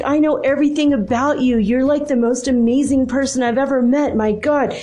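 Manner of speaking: high-pitched, rolling list of praise; imitating an insistent admirer; gushing insistence. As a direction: gush in amazed protest. Retold man gushes about knowing her.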